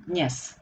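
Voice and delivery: "Dnes" with the D barely touched; very short D. Shown as a demonstration. Teacher repeating the word after explaining it, very short D in "Dnes". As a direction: slip lightly through D into n in "Dnes". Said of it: "very short D".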